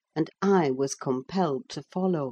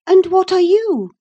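put-on higher, louder bright young girl; eager girl Cathy; 11 dB louder than usual. A narrator's reading. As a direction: call out like a lively girl on the moor. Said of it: "inquired Catherine".

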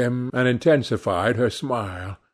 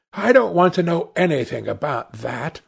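higher, lightly acted protest; a hint of an indignant lad; sullen son; 6 semitones higher than usual.

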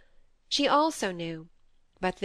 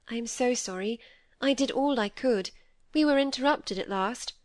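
slightly higher voice, mildly apologetic; lightly voiced Molly, apologetic; 4 semitones higher than usual. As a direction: lightly play a guilty friend explaining herself.

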